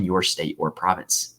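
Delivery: slow Scottish lilt on province; Scottish accent. Real, not acted. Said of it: "why did I sound Scottish".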